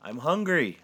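high, loud defensive cry; protesting. A narrator's reading. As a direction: blurt it out in self-defence. Santa defends eating the birds.

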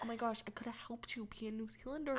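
whispered, quick mock lament; imitating a listener. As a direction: whisper it fast as an imagined reply. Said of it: "she'll be like".

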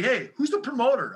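high-pitched, pushy retold demand; lightly played loudmouth from Chicago; Chicago asshole. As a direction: act out a pushy Chicago guy. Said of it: "the Chicago asshole guy".

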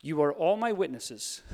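spoken aloud for everyone around to hear; said out loud. Shown as a demonstration. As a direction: proclaim "You are all my witnesses" out loud. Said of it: "Say it out loud".

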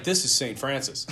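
half-laughing through the line, then a burst of laughter; amused laugh breaking out. Real, not acted. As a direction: giggle as you say it. Laughs telling of old friar.

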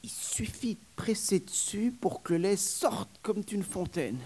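whispered, high murmur. Acted. Nurse murmuring to the young man, whispered. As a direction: murmur it like a secret. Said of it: "Elle murmura".

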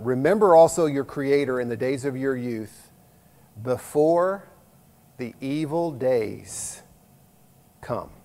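solemn reading. Acted. Reading scripture, slowing and fading.

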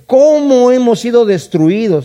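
high, slow wailing lament; a professional mourner's keening question. Shown as a demonstration. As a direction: cry it out like a hired mourner. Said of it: "Eso es lo que las plañideras van a estar llorando".

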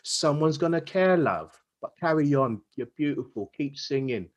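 a hint of a cheeky Cockney engineer; London engineer chatting up a singer in Cockney. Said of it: "I just imagine him being a Cockney".

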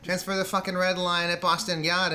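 sweary Boston local giving directions; Boston accent attempt. Shown as a demonstration. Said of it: "I can't do some of the vowels".

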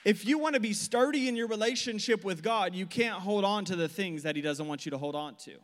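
loud, driving sermon cadence; preaching at full force. Real, not acted. Preacher driving the point home to the congregation, loud and forceful. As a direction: preach it out to the room.

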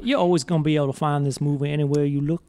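put-on Southern gentleman accent; lazy southern drawl. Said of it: "this is better than Nick Cage's accent".

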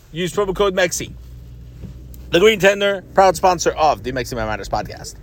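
brisk ad read for the podcast sponsors. Acted. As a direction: rattle off the promo like a radio spot. Reads sponsor ads.

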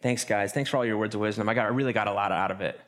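mock the one who hogged the talk; self-absorbed group member. Mocking the talker who thanks the group. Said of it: "they look around the circle and be like".

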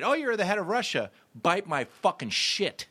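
arrogant insults. Pretend. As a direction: taunt a head of state. Arrogant astronaut insulting heads of state.

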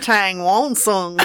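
slow drawled Texas cowboy twang. Pretend. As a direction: say the name like a Texan. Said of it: "Read that out with a Texas twang".

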